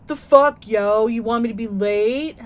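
loud mock sassy boy; sassy kid. Son mouthing off to his dad, loud sass. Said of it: "DJ popped off with".

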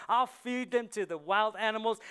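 loud, defiant echo of the taunt. Acted. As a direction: throw his threat back at him. David echoes Goliath's threat back.

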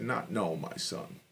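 mother hushing her crying son; hushed mother. Retold or imitated. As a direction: hush him gently like a mother. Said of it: "she said".

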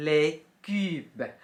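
les cubes as "lay kub", a short final b; French pronunciation. Shown as a demonstration. Teacher reading the vocabulary aloud, careful French. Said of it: "อ่านว่า".

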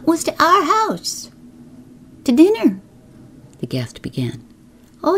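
lightly voiced chattering village gossip; a hint of a busy gossip; gossiping neighbor woman. Mrs Elton's gossiping voice.

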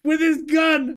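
high, loud disbelief; shocked exclaim. Real, not acted. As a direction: cry it out, stunned. Shocked reaction to accidental shot.

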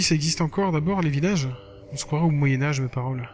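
lively reading of a blog entry; lightly performed text narration; diary read-aloud. Acted. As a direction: read it out like a casual teen diary. Reads game blog aloud.

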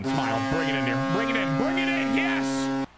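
excited. Real, not acted. Celebrating his home run.

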